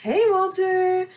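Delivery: high, loud, slow flirt; drawn-out coy hello; flirty greeting. Retold or imitated. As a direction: greet him like you're smitten. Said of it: "I'm like".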